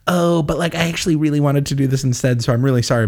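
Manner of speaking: acted-out awkward apology; apologetic backtracking. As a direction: wriggle out of it apologetically. Voices good guys backing out.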